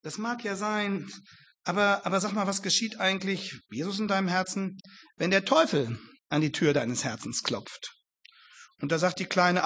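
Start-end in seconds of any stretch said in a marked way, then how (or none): 0.0-7.9 softer, lightly sceptical teacher voice; a hint of a teasing teacher; mocking teacher. Teacher teases the little girl, softer and mildly mocking. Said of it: "etwas kritisch, etwas spöttisch".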